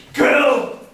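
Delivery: high and loud single jab; taunting yell. Acted. Brother taunting Michael with a loud, high jeer. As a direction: fling the word like an insult.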